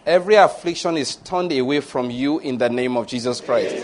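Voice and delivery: measured, solemn benediction; deliberate prayer cadence; pastoral prayer. Real, not acted. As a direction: pronounce a scripture blessing in even phrases. Continues benediction.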